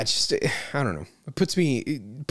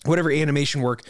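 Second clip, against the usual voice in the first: throat catching mid-phrase; strained, coughing before restart; choking while speaking; 3 semitones higher, faster than usual. Real, not acted. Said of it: "Excuse me, I'm choking here".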